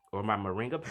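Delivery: burp in the voice. Real, not acted. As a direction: talk through a burp. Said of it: "excuse me, I'm burping".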